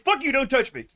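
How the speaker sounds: high, loud put-on voice for the grumpy cat; cranky cat voice, high and loud; cat's voice. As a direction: voice the cat snapping at its owner. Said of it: "she's like".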